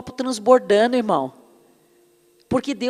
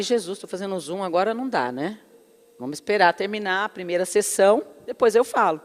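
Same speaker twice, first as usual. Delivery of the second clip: hushed aside to God; 6 semitones lower, 7 dB quieter than usual. Retold or imitated. Retold aside to God during Zoom.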